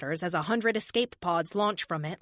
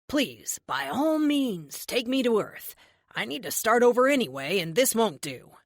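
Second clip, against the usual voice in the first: smug villain. Acted. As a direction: taunt her with lazy menace. Villain Erickson taunts the heroine.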